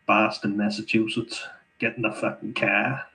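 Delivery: mock Boston accent. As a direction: drop the R in "car", Boston-style. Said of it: "Great accent".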